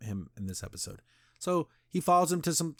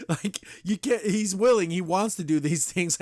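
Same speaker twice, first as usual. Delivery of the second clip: laughing, higher and louder, can't believe it; laughing in disbelief; 5 semitones higher, 3 dB louder than usual. Real, not acted. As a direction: laugh through the words, incredulous. Incredulous laughing at plot hole.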